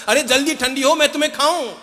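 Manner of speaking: put-on high, eager child voice urging; boy begging the hot kheer to cool; impatient child.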